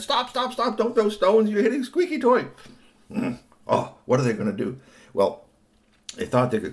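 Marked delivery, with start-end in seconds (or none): 0.0-2.5 high, alarmed shout; urgent protest. A narrator's reading. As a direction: cry out to halt the throwing at once. Friend halts the stone throwing.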